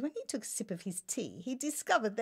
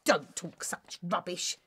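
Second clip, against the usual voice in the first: louder, scoffing disbelief; incredulous exclamation; 5 semitones higher, 6 dB louder than usual. Acted. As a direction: scoff at the absurd news. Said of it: "exclaimed the king".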